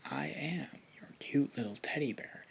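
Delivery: a flirty unvoiced whisper. Naruto whispering sweet nothings into Hinata's ear, whispered. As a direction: breathe it close into her ear. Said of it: "this is Naruto whispering into Hinata's ear".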